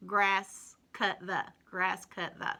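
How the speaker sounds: puzzled, deliberate reading; slow scrambled reading. Shown as a demonstration. Teacher reading the scrambled puzzle slowly to children. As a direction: read the jumbled words slowly one by one. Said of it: "Remember we talked about puzzles".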